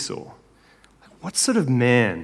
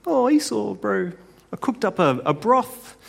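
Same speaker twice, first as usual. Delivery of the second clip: high, soft Kiwi foodie voice; Jacob, Kiwi accent; 7 semitones higher, 5 dB quieter than usual. Acted. Jacob offering Esau his cooking, high soft Kiwi accent. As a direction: put on a softer, higher-pitched Kiwi accent. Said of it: "I don't think he was Kiwi".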